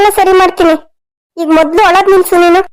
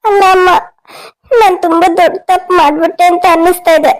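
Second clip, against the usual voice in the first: crying. Acted. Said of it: "ಈಗ ಯಾಕೆ ಅಳ್ತಾ ಇದೀಯ ನೀನು?".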